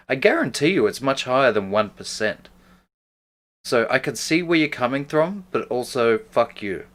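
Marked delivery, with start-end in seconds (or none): 3.6-6.9 plain. Real, not acted. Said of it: "That's the meanest thing to say".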